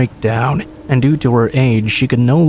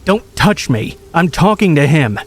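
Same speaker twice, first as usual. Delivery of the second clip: higher, snapping angry outburst; 4 semitones higher than usual. Retold or imitated. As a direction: snap it out like a cornered animal. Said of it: "snapped and growled at me".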